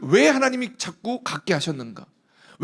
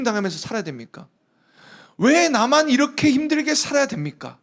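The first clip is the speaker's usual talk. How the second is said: pleading complaint, pitched higher; demanding prayer; 5 semitones higher than usual. Acted. Hannah demanding answers from God, pleading higher. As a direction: press God with why. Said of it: "하나님 앞에 기도하면서 막 물었어요".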